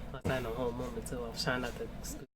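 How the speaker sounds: breaking into laughter mid-line; laughing through it. Real, not acted. Remembering the fight with a friend, laughing through it. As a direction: giggle the words out.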